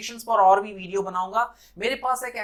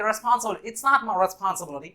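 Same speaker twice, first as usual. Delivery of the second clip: imitated American accent with open ah in responsible; Hollywood American accent; much slower than usual. Teacher quoting Hollywood speech, American accent. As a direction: say it like an American movie line. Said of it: "कुछ इस तरह से pronounce हुआ".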